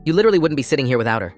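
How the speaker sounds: fast, sneering accusation; contemptuous jab. Acted. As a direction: spit it out with scorn. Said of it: "she said, pointing her fork at me".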